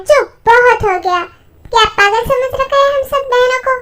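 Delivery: loud, sharp scolding; angry outburst. Acted. Sister scolding the brothers for carrying her sisters off, angry. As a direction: shut them up, fed up.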